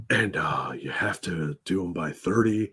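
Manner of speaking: cult leader voice. Retold or imitated. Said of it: "I talk like a cult leader".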